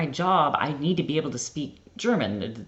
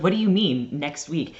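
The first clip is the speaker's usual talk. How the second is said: shocked; 4 semitones higher, 4 dB louder than usual. Retold or imitated. Shocked at the trip date.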